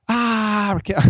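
high, crying shout; hammed-up fake sob; mock sobbing wail. Heckler breaks down, mocked.

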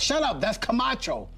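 high-pitched mock scolding; retold scolding. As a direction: imitate a starstruck officer silencing his dog. Patrolman hushes dog, recognising Camacho.

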